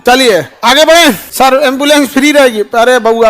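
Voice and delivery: normal talking voice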